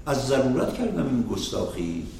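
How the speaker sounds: fast, rhythmic poem chant; Persian verse recitation. Acted. Teacher reading Rumi's verses to the students, fast rhythmic recitation. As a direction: rattle through the couplets in measured rhythm.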